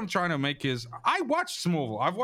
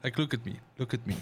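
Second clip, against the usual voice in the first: mock eager; 7 semitones lower, 4 dB quieter than usual. Mock eager, quieter and slow.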